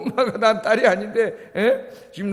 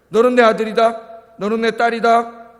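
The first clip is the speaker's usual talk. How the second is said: louder, proclaiming each word firmly; proclaiming God's words; 5 semitones higher, 7 dB louder than usual. Acted. Preacher booming God's words to the congregation, loud and proclaiming. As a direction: announce it like God's own voice.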